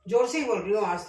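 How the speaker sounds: speaking up. Real, not acted. Cook checks viewers can hear her, speaking up loudly. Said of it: "आवाज आ रही है क्या मेरी आपको?".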